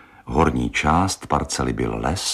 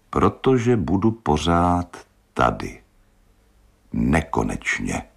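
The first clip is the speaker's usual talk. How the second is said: dreamy. Acted.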